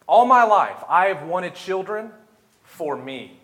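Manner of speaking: pleading aloud to God, mostly high and loud; preacher acting out a fervent, surging prayer; Hannah's impassioned prayer. Hannah pleading with the Lord for a son, impassioned prayer. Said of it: "she says".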